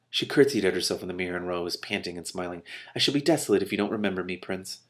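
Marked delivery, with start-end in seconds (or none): 3.0-4.8 cooing. Acted. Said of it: "she cooed at her reflection".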